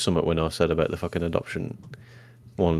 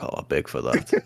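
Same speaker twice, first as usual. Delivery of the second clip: mock plea broken by laughter; laughing quote; 4 semitones lower, 4 dB quieter than usual. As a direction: imitate the line while cracking up. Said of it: "and you're just like".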